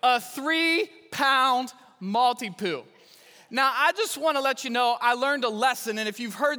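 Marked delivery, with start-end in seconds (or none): 0.0-2.8 slow, drawn-out mock disdain; dry, slow punchline; deadpan irony. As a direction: let the tiny dog land slowly. Mocking the tiny dog.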